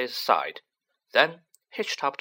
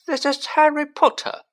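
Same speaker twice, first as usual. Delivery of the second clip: high, louder, firm correction; Fudge correcting; 8 dB louder than usual. A narrator's reading. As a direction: set him straight with authority.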